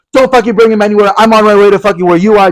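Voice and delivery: high, bossy boyfriend impression; hammed-up high threat; mock angry yelling. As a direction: imitate a boyfriend angrily warning you over the phone. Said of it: "Stop fucking yelling at me".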